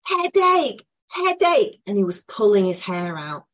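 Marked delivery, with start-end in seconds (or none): 0.0-1.8 high, loud pained cry of headache; imitating a screaming boy. Imitating the autistic boy screaming in pain. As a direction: mimic the distressed child's shout. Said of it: "he started screaming".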